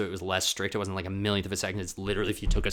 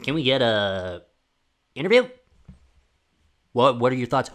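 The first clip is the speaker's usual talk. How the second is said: pushy reporter; 2 semitones higher, 7 dB louder than usual. Retold or imitated. Vlogger mocking a poolside reporter, pushy eager voice. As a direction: shove the mic in and chirp the question. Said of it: "with a mic in her face".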